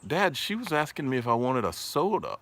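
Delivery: voicing his son. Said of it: "he said".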